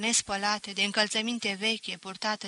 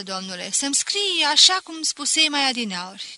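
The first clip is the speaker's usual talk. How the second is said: mocking teacher; 5 semitones higher, 7 dB louder than usual.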